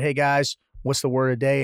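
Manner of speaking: ordinary talk, nothing marked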